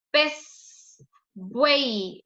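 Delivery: "Pez" and "buey" each in one emphatic push; one-syllable demo. Shown as a demonstration. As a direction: say "Pez", "buey" as single separate beats. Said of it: "es una sola emisión".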